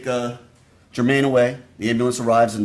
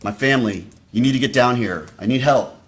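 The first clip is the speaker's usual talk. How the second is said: raised, urgent plea for help; loud mock panic, pleading; retold scream; 6 dB louder than usual. Prosecutor voicing the frantic caller, raised and urgent. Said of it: "you're gonna hear her screaming".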